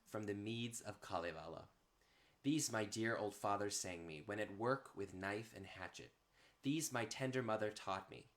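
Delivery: measured, even epic verse recital with pauses between lines; poem reading. Acted. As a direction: read it like an old chanted saga, line by line. Continues the Kalevala reading.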